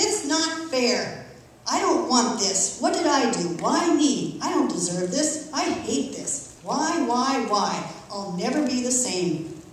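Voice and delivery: retold sobbing protest, lightly voiced; tearful outburst. Wife crying to her husband, retold tearful protest. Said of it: "I burst into tears".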